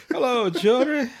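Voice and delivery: slow, high cartoon cook voice; drawn-out impression of a cartoon cook; Chef. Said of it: "good old Chef, I miss that, uh, voice actor".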